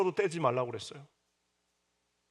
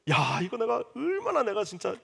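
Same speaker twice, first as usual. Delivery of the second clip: higher, fed-up outburst, half-joking; mock exasperation; 7 semitones higher than usual. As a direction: play your own frustration over the torn ribbons. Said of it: "얼마나 화가 나는지".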